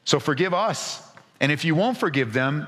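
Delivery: earnest, mildly acted plea of a shepherd; pleading Moses. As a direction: plead with God for forgiveness. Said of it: "as if to say".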